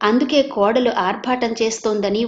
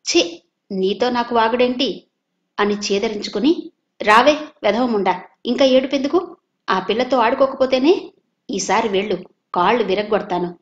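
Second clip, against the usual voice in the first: louder, contemptuous telling-off; scornful scolding; 3 dB louder than usual. Acted. Savitri dragging her daughter away, scolding loudly. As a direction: dismiss him, then scold the crying girl.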